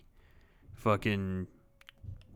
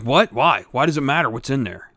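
put-on indignant kid; 2 semitones higher, 7 dB louder than usual. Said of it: "He's like".

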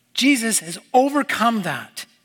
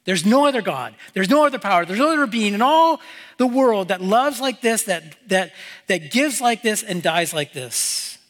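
fired-up restatement. Real, not acted. Preacher repeats the quote, getting fired up, with building fervor. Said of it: "It gets me fired up".

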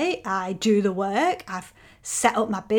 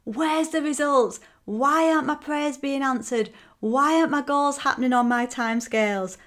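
lightly voiced fed-up woman, higher; frustrated woman; 5 semitones higher than usual. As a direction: plead where's the results, mildly exasperated. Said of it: "that point of".

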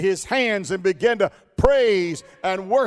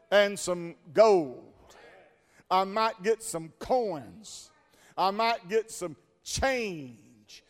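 scheming beggar; 4 dB quieter than usual. Acted. Beggar voice again.

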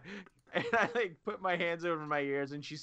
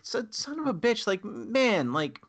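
higher, louder exasperated curse; mock outrage; 7 semitones higher, 4 dB louder, slower than usual. Fan reacting to a Facebook spoiler with mock outrage. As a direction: scold the spoiler poster. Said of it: "I was like".

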